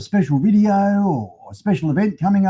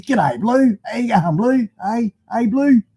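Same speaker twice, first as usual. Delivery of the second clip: higher, chummy Aussie "Blue" greeting; 5 semitones higher than usual. Retold or imitated. Aussie vlogger showing how mates greet each other, higher and cheery. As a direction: call out to a mate whose name you forgot. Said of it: "That's what Aussies call other Aussies".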